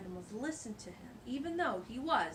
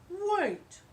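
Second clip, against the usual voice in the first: a sudden, much higher, louder "Wait" from the dog; 10 semitones higher, 9 dB louder than usual. Acted. Mister Paws stopping the animals, high and loud. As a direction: cut in as the clever dog with an idea. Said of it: "said Mister Paws".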